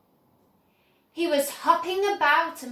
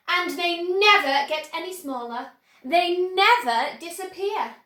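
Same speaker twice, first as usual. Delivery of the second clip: proud boasting; 3 semitones higher, 5 dB louder than usual. Acted. Wonka boasting.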